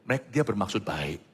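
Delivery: calm her down kindly; soothing reassurance. Retold or imitated. Pastor gently reassuring the friend. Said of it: "Saya beritahu sama dia".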